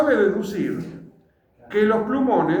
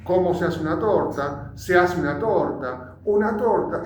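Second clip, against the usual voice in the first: chopping the phrase shorter each time like a search engine; keyword search read-out. Shown as a demonstration. Teacher showing students how Google searched. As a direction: read it like a machine stripping words.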